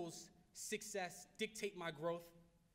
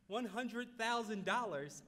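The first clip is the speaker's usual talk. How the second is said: slow, louder, higher gasp of disbelief; stunned disbelief; 4 semitones higher, 5 dB louder, slower than usual. Retold or imitated. Young intern echoing the mentor's huge sum, stunned. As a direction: let the number knock the wind out of you.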